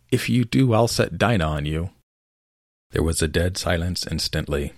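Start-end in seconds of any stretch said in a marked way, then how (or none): 0.1-1.9 calling out loud. Acted. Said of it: "called out as loud as she could".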